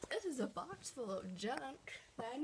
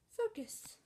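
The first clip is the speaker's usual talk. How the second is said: high pleading call to the camera; high, urgent plea to focus; 10 semitones higher than usual. Real, not acted. Urging the blurry camera.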